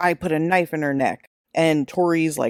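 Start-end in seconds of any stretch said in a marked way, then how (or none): none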